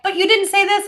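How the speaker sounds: high, mock complaining voice; mocking critics. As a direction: parrot the critics in a high whine. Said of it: "People are like".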